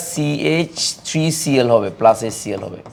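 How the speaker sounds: formula drawn out slowly, symbol by symbol; slow formula dictation. Real, not acted. Teacher giving the class a formula to write, slow dictation.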